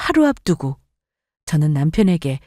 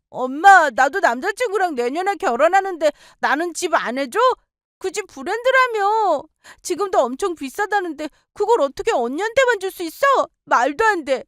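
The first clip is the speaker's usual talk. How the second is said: higher, petulant protest; sulky demanding daughter; 10 semitones higher than usual. Acted. Younger daughter demanding a house from mother, petulant. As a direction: demand your fair share.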